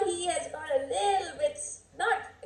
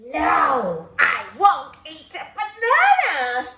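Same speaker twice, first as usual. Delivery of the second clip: defiant grumpy chimp; 5 dB louder than usual. Acted. Chimp's long defiant refusal.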